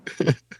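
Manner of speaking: imitated high-pitched giggle; tittering mock laugh; giggly villain laugh. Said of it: "He's just giggly".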